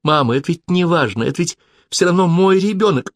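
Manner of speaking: high, urgent pleading; begging mother to understand; pleading, near tears. A narrator's reading. Pleading daughter, rising distress.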